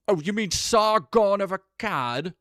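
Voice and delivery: mock the pundit's slow, weighty delivery; critical drinker voice. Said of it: "I went critical drinker there for a second".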